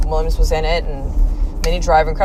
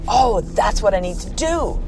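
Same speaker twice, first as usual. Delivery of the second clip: naive younger self; 4 semitones higher than usual. Retold or imitated. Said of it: "I remember seeing that movie and going".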